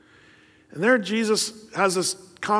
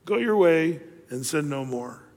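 kind and gentle; 3 semitones lower, 3 dB quieter than usual. Retold or imitated. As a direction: reassure her quietly. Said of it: "and he's just kind".

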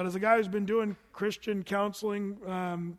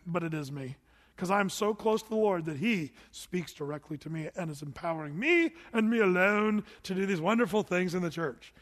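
smug pride. Retold or imitated. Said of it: "but really we're saying".

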